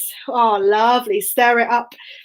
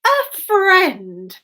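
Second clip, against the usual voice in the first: smiling gently; 6 semitones higher than usual. Acted. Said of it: "smiling gently".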